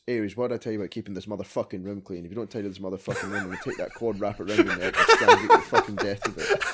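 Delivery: mock furious mum building to a laughing shriek; angry mum rant. Mother scolding her son about his room, a hammed-up angry rant. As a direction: rant at the kid, ending in a squeal. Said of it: "his mum comes in and says".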